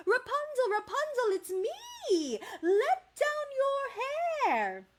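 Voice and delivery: put-on high calling-out for kids to repeat; high, drawn-out storybook call; shouted call. Shown as a demonstration. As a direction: call it high, stretching the final phrase slowly. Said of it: "Can you say that one more time".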